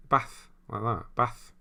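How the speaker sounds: "Bath" in Scouse, short a. Shown as a demonstration. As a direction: show how a Scouser says "Bath". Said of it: "how Scousers say bath".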